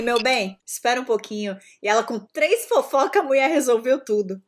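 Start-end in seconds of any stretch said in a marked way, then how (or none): 0.0-1.6 soothing mother. Retold or imitated. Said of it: "E a mãe dele".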